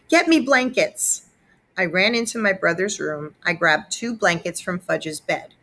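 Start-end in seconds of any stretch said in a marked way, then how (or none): 0.1-1.2 high, slow urgent plea; begging. A narrator's reading. Mother begging Peter, high and urgent. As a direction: plead with Peter for help. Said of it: "Mom begged".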